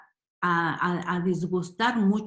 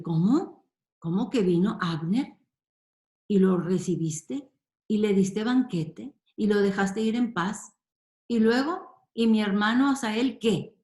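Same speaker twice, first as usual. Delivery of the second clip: lightly voiced angry Joab, rising questions; a hint of outraged protest, building; mock indignation; 2 semitones higher than usual. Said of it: "esto le va a enfurecer a Joab".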